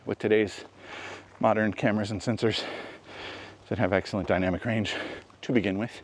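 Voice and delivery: breathless after the climb; talking while short of breath. Real, not acted. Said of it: "Sorry, I'm out of breath".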